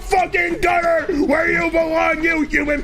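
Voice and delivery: building rage. Acted. Escalating mock rage rant.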